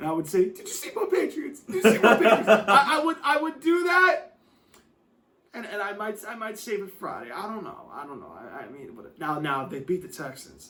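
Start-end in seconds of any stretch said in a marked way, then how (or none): 0.5-2.5 high, fake sobbing, crying whine. Doing a mock fake-crying bit about a team's playoff win: Stephen A fake crying. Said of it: "I would do Stephen A with the fake crying".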